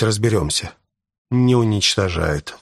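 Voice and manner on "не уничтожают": sighing. Acted. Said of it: "вздохнул я".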